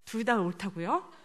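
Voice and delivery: ordinary talk, nothing marked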